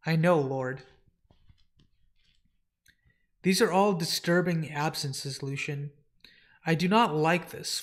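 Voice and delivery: measured, solemn fantasy dialogue; dramatic comic reading. Acted. Servant and lord discussing the missing dreams, formal and grave. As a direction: play a troubled lord and his loyal servant, formally.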